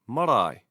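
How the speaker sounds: "marae" stressed on the final AE; stress on diphthong. Shown as a demonstration. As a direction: say "marae" as ma-RAI. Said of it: "stress the first diphthong".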